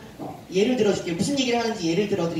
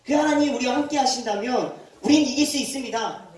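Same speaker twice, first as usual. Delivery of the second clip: bold declaration. Retold or imitated. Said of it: "담대하게 선포했어요".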